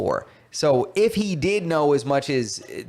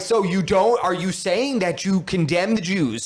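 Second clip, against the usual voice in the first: mock accusing moderator; 6 semitones higher than usual. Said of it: "And she's like".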